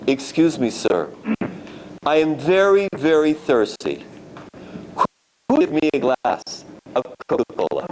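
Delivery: gently ask, utterly unbothered; calm and tranquil. Retold or imitated. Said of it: "He even was complacent, tranquil".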